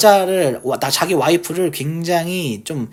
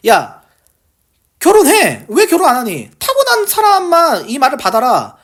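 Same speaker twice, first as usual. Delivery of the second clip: higher-pitched, emphatic correction; lightly acted teacher setting listeners straight; Jesus clarifying; 5 semitones higher than usual. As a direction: insist on it, as if correcting a misunderstanding. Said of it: "그러니까 예수님이".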